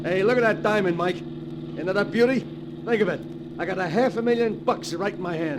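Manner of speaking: excited gloating. Acted. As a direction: crow over the diamond like a greedy thief. Gloating over stolen diamond in car.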